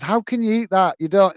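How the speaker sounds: mock disbelieving wife. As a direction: lightly mimic your wife's appalled objection. Acts out wife objecting to food.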